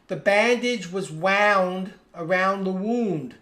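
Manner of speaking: first "wound" rhymes with found, second "wound" like "wooned"; two pronunciations of wound. Shown as a demonstration. Teacher showing how context changes "wound", the two said differently. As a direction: slowly show both "wound"s, rhyming with found, then with crooned. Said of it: "the W O U N D word is totally different".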